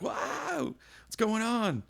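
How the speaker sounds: high, startled wake-up question; jolted awake, baffled; startled confusion. Retold or imitated. Woken by police banging on van.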